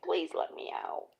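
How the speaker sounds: whispered pleading bird voice; begging bird. Retold or imitated. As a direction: ask to be let out in a tiny whisper.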